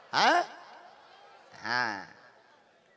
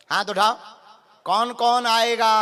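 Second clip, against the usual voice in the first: booming political rally speech; 2 semitones higher, 6 dB louder than usual. Real, not acted. Rousing the crowd.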